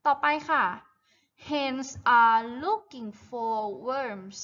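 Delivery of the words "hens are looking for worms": very slow, stretched-out sentence; model reading for repetition. Shown as a demonstration. Teacher reads the farm text for children to repeat, slow model reading. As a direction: read it out slowly, word by word. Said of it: "Repeat after me, guys".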